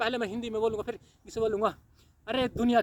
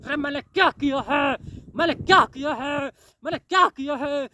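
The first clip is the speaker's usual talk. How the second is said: imagined sinner's lament; 3 semitones higher, 5 dB louder than usual. Pretend. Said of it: "तू कहेगा".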